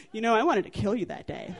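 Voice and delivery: deadpan imitation of a mother; toneless, unhesitating. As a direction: say it matter-of-factly, without hesitation. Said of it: "no tone, no hesitation".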